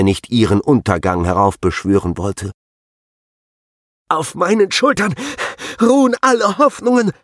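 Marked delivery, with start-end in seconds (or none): 4.1-7.1 high, strained, pressed through clenched teeth; through gritted teeth. Acted. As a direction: force the words out past clenched teeth. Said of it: "presste er zwischen zusammengebissenen Zähnen hervor".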